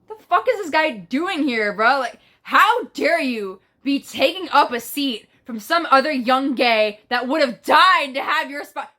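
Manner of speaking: indignant mock outrage; drawn-out, scandalized telling-off; offended. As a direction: act out being personally offended, stretching the key words. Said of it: "I was offended".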